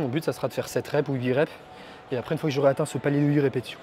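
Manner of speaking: out of breath after a set; out of breath, puffing between words. Real, not acted. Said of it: "pourquoi je suis soufflé là?".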